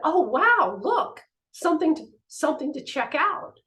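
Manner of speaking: playfully keen to go look; eager excitement. Retold or imitated. Two sisters spotting a street fight, mildly eager. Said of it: "And we said".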